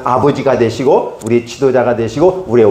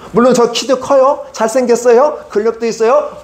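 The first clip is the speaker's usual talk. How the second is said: bashful boasting; 10 semitones higher than usual. Acted. Saul listing his merits, bashful.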